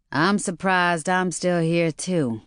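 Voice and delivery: slow, deadpan, toneless line; flat. Acted. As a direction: say it flatly, no lift. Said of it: "Maureen said flatly".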